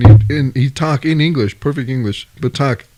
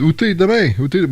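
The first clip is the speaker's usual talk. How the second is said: French; 4 semitones higher than usual. Retold or imitated. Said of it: "she was saying to the missus".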